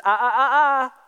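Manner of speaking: quick repeated 'ah' to cut someone off; teacherly 'not so fast' warning; scolding interruption. Acted. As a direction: catch them out mid-excuse. Acted scolding of a loophole.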